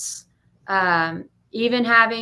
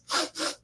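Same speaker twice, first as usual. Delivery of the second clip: short mock sob sniffs; imitated crying sniffles; 6 dB quieter than usual. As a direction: sniffle like someone crying on the phone. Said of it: "like, she's crying".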